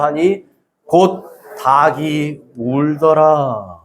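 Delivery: measured, declaimed Bible reading; formal congregational reading; scripture reading. Acted. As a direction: read the verse out evenly, drawing out the final words. Reads scripture aloud.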